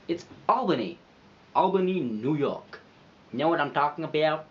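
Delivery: hammed-up New York accent. Vlogger clowning about Albany, you know what I'm talking about, New York accent. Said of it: "try and do that accent again".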